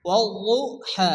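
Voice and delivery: ওয়াল্লাহা slowly, leaning on the doubled middle consonant; slow teaching model of ওয়াল্লাহা with a held double consonant; doubled-letter demonstration. Shown as a demonstration. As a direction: join into the doubled consonant of ওয়াল্লাহা, then release it. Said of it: "শুধুমাত্র এই অক্ষরটি উচ্চারণ হবে".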